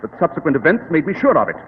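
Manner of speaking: calm, superior detective explaining; Sherlock Holmes. Acted.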